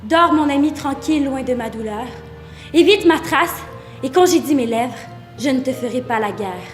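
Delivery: gently recited, subdued; tender lullaby poem. Acted. Speaker bidding a red-haired lover sleep, promising no war, tender.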